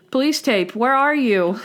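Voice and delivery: lightly played tipsy answer; drunk. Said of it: "Randy is drunk and he's like".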